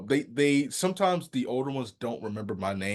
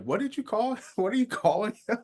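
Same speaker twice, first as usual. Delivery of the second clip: baffled cousin; 12 semitones higher than usual. Retold or imitated. Cousin baffled, voiced high.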